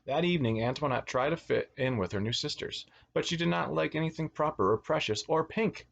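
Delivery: put-on lilting read-aloud for children; animated storyteller; picture-book narration. A narrator's reading. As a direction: read a storybook to little kids, stressing key words.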